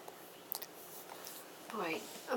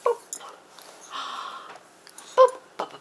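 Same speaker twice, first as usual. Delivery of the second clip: put-on squeaky high-pitched baby talk; 11 dB louder, faster than usual. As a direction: coo it up high and loud. Parent coaxing baby, squeaky high.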